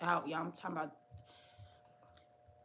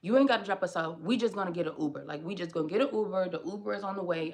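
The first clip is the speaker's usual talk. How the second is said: firm brush-off; 6 dB louder, faster than usual. Retold or imitated. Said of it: "I'm like".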